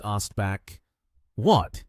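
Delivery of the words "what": sharp startled "What?", a touch louder; surprised. Acted. Lin Yi hearing of his prize, surprised. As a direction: caught off guard, blurting it out.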